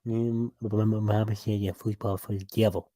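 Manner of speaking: Bobby Boucher. Acted. Co-host showing off his impression, stammering Bobby Boucher. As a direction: stutter in, then quote mama solemnly. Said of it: "Bobby Boucher impression".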